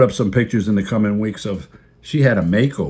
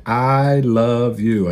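tender to the dog; much slower than usual. Retold or imitated. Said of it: "I just look at her every day and say".

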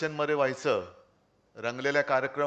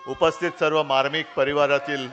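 rally opening call; 5 dB louder than usual. Real, not acted. Opens speech addressing the crowd.

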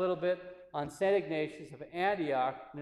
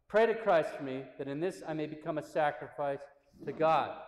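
measured, slightly raised reading voice; solemn reading. Acted. Priest reads martyr's letter to listeners, solemn reading. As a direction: read the letter out with earnest emphasis.

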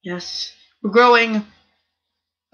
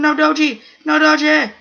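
higher, loud alarmed plea; alarmed shout; 5 semitones higher, 4 dB louder than usual. Real, not acted. Gamer pleading with the Doge player, alarmed shout. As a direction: cry out at the attacker.

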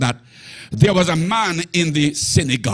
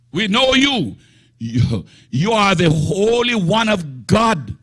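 demon voice; 4 semitones higher than usual. Acted. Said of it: "what this fellow said".

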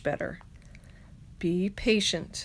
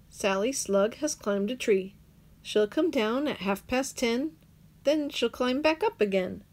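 ordinary delivery, nothing marked

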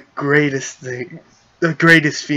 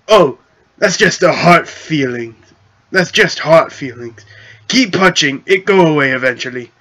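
goblin chief voice; 3 dB louder than usual. Acted.

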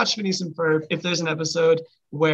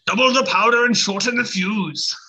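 pirate voice; 4 semitones higher than usual. Retold or imitated. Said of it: "I sound like a different character".

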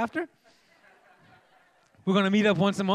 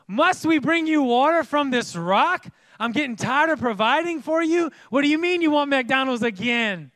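raised, higher-pitched scolding; exasperated shouting; 6 semitones higher, 4 dB louder than usual. Acted. Moses to the thirsty people, loud and exasperated. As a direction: berate them like a fed-up provider. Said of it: "he shouted".

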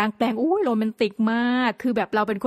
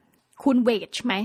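slow quoted question; much slower than usual. Retold or imitated. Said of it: "แบบ".

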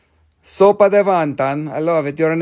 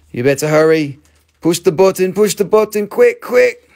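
rising, urging faster and higher; urgent hurry; 3 semitones higher, 4 dB louder than usual. Real, not acted. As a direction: push them to hurry up, louder each time. Urging buyers to push button.

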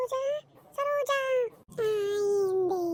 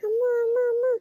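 higher, calling out that a thief came; hammed-up thief alarm; mock alarm; 3 semitones higher, faster than usual. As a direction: raise the alarm like a panicky old aunt. Auntie crying thief, calling everyone.

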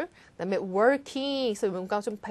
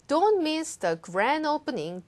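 Don't pushed high and strong; stress on Don't; 4 semitones higher, much slower than usual. Shown as a demonstration. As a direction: punch Don't miss. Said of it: "Don't miss 강조하시면서".

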